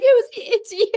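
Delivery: high, loud revelation; overjoyed realization. Retold or imitated. To her daughter Faye after the film, a high excited gush. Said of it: "I actually grabbed Faye and was like".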